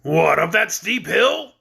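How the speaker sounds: slow, aghast goat protest. Acted. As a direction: balk at the steep climb. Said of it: "cried the goat".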